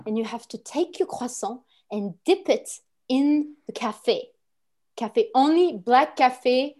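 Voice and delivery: put-on unhurried, instructive French accent. French person teaches the perfect croissant breakfast, French accent. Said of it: "I can't do the French accent".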